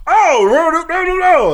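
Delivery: high, loud "oh no no no"; high mock protest. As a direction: cry out no in mock alarm. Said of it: "I'm gonna go".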